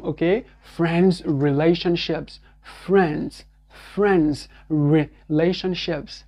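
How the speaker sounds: slow example sentence, stressing "little" and "friends"; English sentence drill. Shown as a demonstration. Teacher drilling an example sentence, slow. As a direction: read it slowly and carefully. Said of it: "le mouvement du re".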